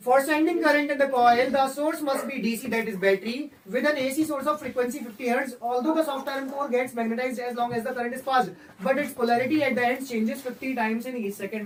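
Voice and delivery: very slow dictation-style English read; teacher dictating from the textbook, very slowly; slow reading aloud. Shown as a demonstration. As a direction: read each word out slowly for the class to note. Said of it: "अब मैं अंग्रेजी में पढ़ूंगा".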